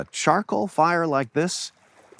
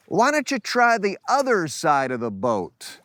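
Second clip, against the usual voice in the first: higher-pitched acted call to a boat; mock holler, raised pitch only; 6 semitones higher than usual. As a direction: lightly play a man calling from shore. Stranger calling from shore to boat.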